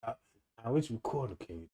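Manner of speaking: hushed, mock whisper to the cop. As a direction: keep it low and secret, like hiding it from the police. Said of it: "You gonna try to whisper to the police".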